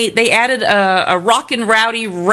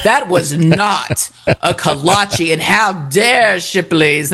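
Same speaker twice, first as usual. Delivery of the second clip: mock indignant; 4 semitones lower, slower than usual. Mocking offended commenters.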